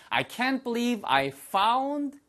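slow model sentence. Shown as a demonstration. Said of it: "하셔도 되지만".

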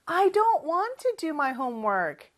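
slow, clear teacher model; slow model sentence. Shown as a demonstration. Teacher models the sentence slowly for learners. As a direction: say each word slowly for students to repeat. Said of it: "연습해볼까요?".

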